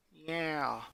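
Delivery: soft hushed yeah; whisper. Acted. Ronnie Ann whispering back to Lincoln on the couch. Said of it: "she whispered back".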